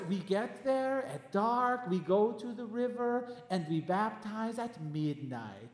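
slow, gentle retelling; Pastor Timothy. Retold or imitated. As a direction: measure it out slowly in a gentle imitation. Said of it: "he's so gentle when he talks".

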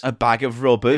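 low mimicked catchphrase voice; copying co-host. Copying the co-host's catchphrase, low mimicry. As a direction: echo your co-host in a low put-on voice. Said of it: "he's copying my stuff now".

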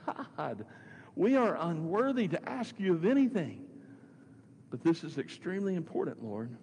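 acted plea, rising high after the opening word; crying out in prayer. Paul prostrate before the Lord, crying out in acted prayer. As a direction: imitate a man pleading humbly with God. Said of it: "and cries out and says".

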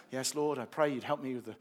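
mock bus prayer. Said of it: "I'm kinda kidding around".

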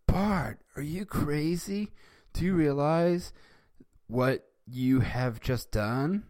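put-on high, alarmed kid voice; surprised. Milhouse shocked that Bart punched Nelson, high surprised voice. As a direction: blurt it out in disbelief. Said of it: "surprised, went".

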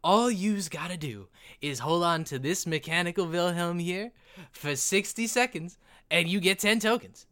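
lightly voiced goblin explaining rules; a hint of goblin showman; goblin ride operator. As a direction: reel off the rules as a carnival goblin. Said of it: "goblin walks up to you".

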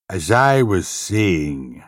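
slow, pointed and annoyed; glowering. Acted. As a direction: pause to glare at the latecomer. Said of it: "the inspector glowered".

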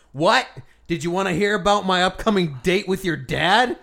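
hammed-up chatty mom; mom's voice.

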